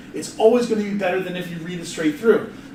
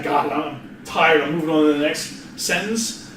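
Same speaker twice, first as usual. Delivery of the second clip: tired; 3 semitones lower than usual. Retold or imitated. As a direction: drag it out, worn out. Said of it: "I'll record it once and go".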